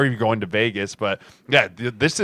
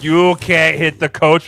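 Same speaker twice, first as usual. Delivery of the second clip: coach protesting; 5 semitones higher, 7 dB louder, slower than usual. Retold or imitated.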